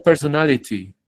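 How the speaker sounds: "personality" with a crisp t before the final y; clear British-style T. Shown as a demonstration. Teacher gives her example to students, clear T. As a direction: fully sound the t in "personality". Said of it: "personality suena más británico".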